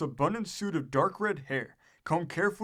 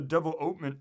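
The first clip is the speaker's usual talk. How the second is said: put-on "development" with the "ope" accented; stress on OPE. A narrator's reading. President repeating himself to the ambassador, "development" accented on "ope". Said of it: "with a strong accent on the ope".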